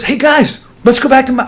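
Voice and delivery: lightly voiced eager host; Jimmy Burke. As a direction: pitch it up, hailing the guys. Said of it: "Jimmy Burke goes".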